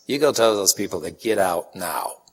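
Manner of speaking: urgent whisper during mass; whispered order. Retold or imitated. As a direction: whisper the priest's order so the congregation can't hear. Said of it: "So Father Dennis says".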